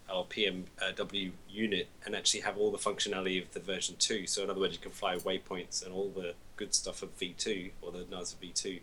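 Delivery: faint, distant mic with hiss; quiet voice loud hiss. Real, not acted. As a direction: speak very softly under static. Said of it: "you're really quiet for some reason".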